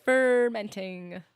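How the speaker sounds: "Fermenting" with a long, heavy FER; drawn-out first syllable. Shown as a demonstration. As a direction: stretch the FER in "Fermenting" slowly. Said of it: "sounds like you're about to say fermentation".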